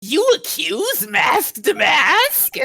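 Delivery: slow, hammed-up shout of disbelief; mock outraged shout. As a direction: bellow the accusation back, slowly. Prosecutor outraged in courtroom.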